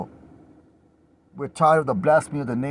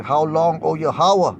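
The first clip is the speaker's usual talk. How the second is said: loud cry; 3 semitones higher, 5 dB louder, slower than usual. Acted. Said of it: "they cry with a loud voice".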